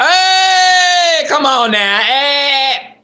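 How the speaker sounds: squealed high-pitched hey, come on now; high greeting. Pretend. Streamer squealing a greeting at a viewer's comment.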